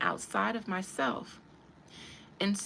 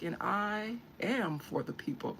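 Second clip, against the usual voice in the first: smug politician; 4 dB quieter than usual. Retold or imitated. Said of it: "they're sitting there like".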